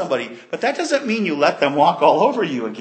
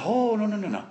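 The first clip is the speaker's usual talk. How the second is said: soft, measured, with long pauses; calming reassurance; 3 dB quieter than usual. Retold or imitated. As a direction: settle frightened brothers, dropping gently after the first "no". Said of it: "he calmed them all".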